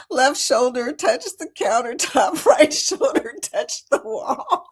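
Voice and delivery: giggling through the words, drawn out; laughing at how cramped it was. Real, not acted. To viewers about the cramped toilet, laughing. Laughing while describing tiny bathroom.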